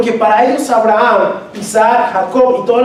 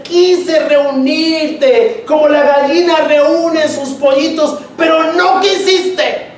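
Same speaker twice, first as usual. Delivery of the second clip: slow, higher lament, a touch of weeping; lamenting Jesus; 5 semitones higher, much slower than usual. Retold or imitated. Pastor voicing Jesus weeping over Jerusalem, slow lament. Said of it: "Y lloraba y decía".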